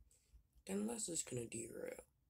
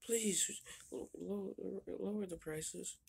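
pleading; 5 semitones higher, 3 dB louder, slower than usual. Acted. Pleading with worker over prices.

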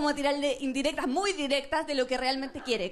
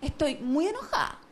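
mock angry. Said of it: "Entonces voy y le digo".

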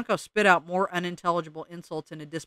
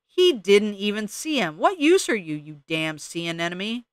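angry rant; 3 semitones higher, 5 dB louder than usual. Acted. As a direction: berate them as useless, building then dropping on the insult. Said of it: "yelled the Junco".

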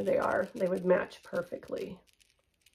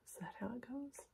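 much softer, puzzled question; hushed question; 4 semitones higher, 19 dB quieter, faster than usual. Real, not acted. Vlogger adjusting a necklace chain, hushed question. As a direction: ask yourself quietly, unsure. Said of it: "I don't know why I'm whispering".

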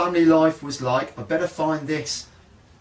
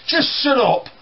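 higher, louder snap; angry brother; 10 semitones higher, 4 dB louder than usual. Retold or imitated. Brother snapping angrily at younger brother, louder. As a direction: tell him to shut up. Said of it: "David looks angry".

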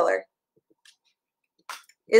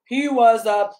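bright, sing-song picture book reading; reading to a child; 3 semitones lower than usual. Acted. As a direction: read it like bedtime story time for a toddler.

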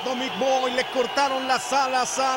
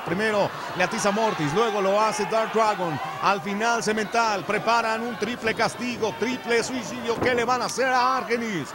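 lively play-by-play call; wrestling commentator. Acted. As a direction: call the match as it happens.

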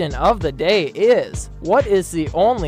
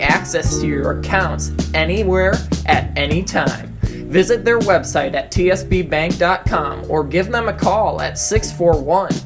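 projected radio commercial delivery; scripted advertisement voice; sponsor ad read; 3 dB louder than usual. Acted. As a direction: sell the local sponsor clearly.

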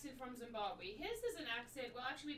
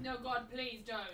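pleading no; 5 dB louder than usual. Real, not acted. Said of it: "Loved the reaction".

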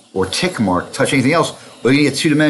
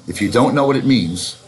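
ordinary talk, nothing marked

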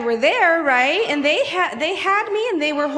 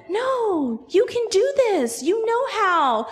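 higher, steady motherly encouragement; encouraging reassurance; 6 semitones higher, slower than usual. Acted. Mommy tells girl she can ride down, encouraging reassurance. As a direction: lift the voice to reassure a child.

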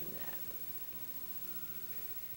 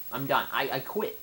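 louder frustrated I'm done; louder exasperated repeat; 5 dB louder than usual. Real, not acted. Gamer repeating his surrender, louder and exasperated. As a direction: say it again with more fed-up force.

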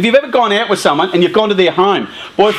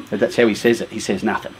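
low voice, dropping softer; explaining wife; 10 semitones lower, 7 dB quieter, faster than usual. Retold or imitated. Wife explaining her father's silence to husband, low and hushed. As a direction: explain it quietly, sinking to a hush.

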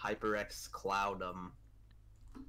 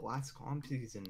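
ordinary talk, nothing marked

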